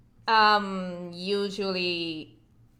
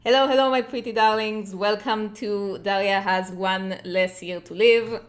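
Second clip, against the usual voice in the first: slightly louder show-opening greeting; streamer intro; 4 dB louder than usual. Acted. Streamer greeting viewers before a birthday drawing stream, show-host intro.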